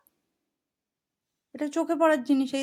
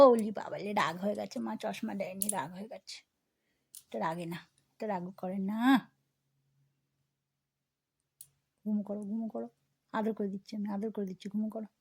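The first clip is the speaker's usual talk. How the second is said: soothing lullaby talk; 4 semitones lower, 7 dB quieter than usual. Real, not acted. Mother lulling baby to sleep. (নরম ঘুমপাড়ানি গলা)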